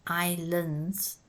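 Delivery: "islands" said EYE-lands with the first S silent. Shown as a demonstration. Teacher modelling "islands" for pupils, first S silent. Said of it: "The first S is silent".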